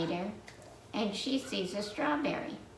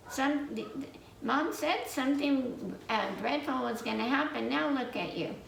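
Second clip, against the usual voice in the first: higher voice, a light told-you-so scold; scolding ghost; 5 semitones higher than usual. Acted. The last ghost scolding the red sister, higher. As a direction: wag a finger at her, lightly.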